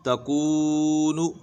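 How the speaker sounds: तकूनु very slow on कू, short ta and nu; stretched qaf vowel. Shown as a demonstration. Teacher demonstrating the stretch, तकूनु with very long कू. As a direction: draw out only the middle of तकूनु. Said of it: "काफ को खींच के पढ़ें".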